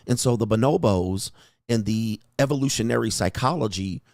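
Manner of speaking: lightly mocking a dull pundit; boring lecturer. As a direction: drone it like a tedious podcaster. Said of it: "They be like this".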